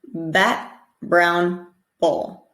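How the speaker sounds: slow "bat", "brown", "bull", each B voiced; B example words. Shown as a demonstration. Teacher modeling B words for Arabic speakers. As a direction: say each word slowly, leaning on the B. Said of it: "the B in words like bat".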